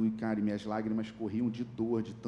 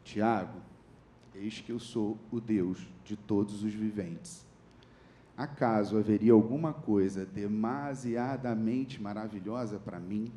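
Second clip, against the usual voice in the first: low, slow, solemn voice of God; measured divine pronouncement; God speaking a verse; 3 semitones lower than usual. Retold or imitated. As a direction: recite scripture slowly and gravely, pitched low. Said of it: "veio esse versículo pra mim".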